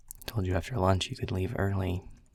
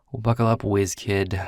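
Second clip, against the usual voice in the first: put-on louder, playful jab at the whiz kid; teasing call-out; 7 dB louder than usual. Boss teasing the new hire at lunch, playfully loud. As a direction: announce it like a challenge.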